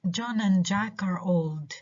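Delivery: put-on "John", "Jack" and "old" stressed, "and" weak; stress on content words. Shown as a demonstration. Teacher showing unstressed "and", with "John", "Jack", "old" stressed. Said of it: "we stress John, Jack, and old".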